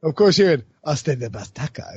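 light Spanish inflection on the stadium name; accent inflection. Retold or imitated. Podcaster imitating commentator at the stadium, Spanish accent. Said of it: "put a little inflection".

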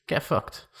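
breathy whispered "get fucked"; a whispered, half-laughing brush-off; whispered dismissal. Real, not acted. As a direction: hiss it under your breath to the critics. Dismissing his critics.

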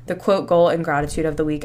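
slightly winded speech; short of breath while talking. Real, not acted. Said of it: "I'm, like, out of breath right now".

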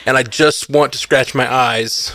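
shaky breath, mouth on fire; mouth burning from spicy food. Real, not acted. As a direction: talk through pepper burn. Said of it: "My mouth is burning. my breath is shaking".

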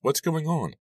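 very high, alarmed question; gasping. A narrator's reading. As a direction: gasp it, shocked and needing answers. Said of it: "I gasped".

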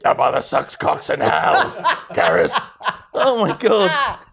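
loud laughing through words. Real, not acted. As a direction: crack up while talking. Laughing at the absurdity.

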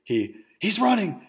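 shrieking through laughter at the escape; laughing disbelief. Retold or imitated. Garrett spotting his friend bolting from the buffet, laughing shriek. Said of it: "look at Garrett's face and goes".

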